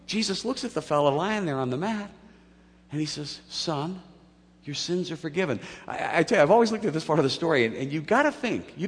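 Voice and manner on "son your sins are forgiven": soft, measured tenderness; gentle pardon. Acted. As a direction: lightly act out a fatherly absolution. Voices Jesus forgiving the man.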